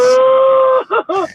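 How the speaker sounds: high, delighted squeal of surprise; surprised oh. Real, not acted. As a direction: gasp it out in amused shock. Spotting a lot lizard.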